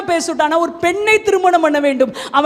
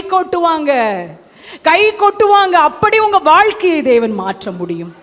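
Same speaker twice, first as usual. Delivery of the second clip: full-voiced, ringing proclamation; impassioned preaching. Real, not acted. Preacher promising a changed life to worshippers, impassioned. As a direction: proclaim the promise with driving force.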